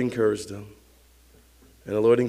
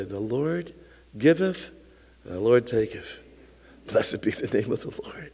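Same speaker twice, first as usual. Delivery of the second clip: solemn prayer. Acted. Mourner thanking the Lord for a lost loved one, solemn. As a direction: pray it gently, growing a little firmer.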